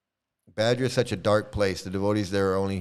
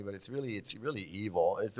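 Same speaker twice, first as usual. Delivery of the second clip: quiet and serious; 11 dB quieter than usual. Real, not acted. Turns serious after joking.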